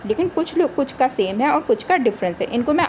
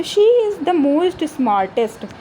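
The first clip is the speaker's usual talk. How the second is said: slow, deliberate reading of the error; wrong sentence read slowly; much slower than usual. Shown as a demonstration. Teacher reading the wrong answer to her class, slowly. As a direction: drag out each word of the faulty form. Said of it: "नहीं होगा".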